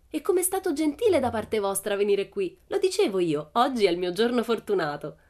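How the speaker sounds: delighted Pippi. Acted. Pippi calls to the police from the roof, gleeful.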